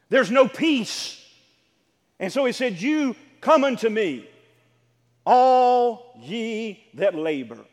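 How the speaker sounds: loud, punched sermon phrases with pauses; emphatic preacher, slowing on key words; forceful preaching. Real, not acted. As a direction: drive each short phrase home.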